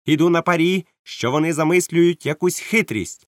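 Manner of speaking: high, loud wary warning; captain smelling a trick; stern captain voicing suspicion; suspicious captain. Captain warns his men.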